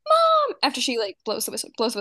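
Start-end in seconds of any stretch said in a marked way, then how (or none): 0.1-0.6 put-on high, loud little girl calling out; shrill mock child yell of Mom; imitating a bossy little sister; tattling kid. D W tattling in montage.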